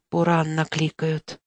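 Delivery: put-on hushed, slow old woman's whisper. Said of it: "прошептала старуха".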